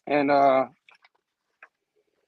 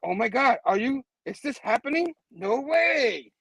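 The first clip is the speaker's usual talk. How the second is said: high, thrilled gasp of disbelief; pitched-up amazed fangirl; starstruck disbelief; 6 semitones higher than usual. Acted. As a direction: squeal it like an astonished fan. Acting starstruck fan's disbelief.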